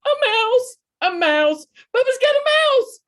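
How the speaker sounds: high, loud panicked scream. Acted. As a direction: shriek it out in a panic.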